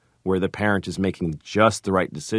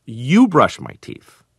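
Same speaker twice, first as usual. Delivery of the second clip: put-on slow, higher, louder child's demand; imitating a demanding child; 5 semitones higher, 6 dB louder, slower than usual. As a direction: turn the tables like a bossy toddler. Daughter's counter-demand, acted out.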